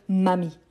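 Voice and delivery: "mamie" as ma and amie run into one word; fuse ma amie into "mamie"; wrong fusion. Shown as a demonstration. Teacher showing what cannot be said, amie fused into "mamie". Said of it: "Je ne peux pas dire".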